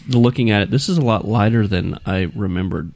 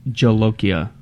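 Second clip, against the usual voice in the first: scary reading voice. Shown as a demonstration. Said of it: "something scarier".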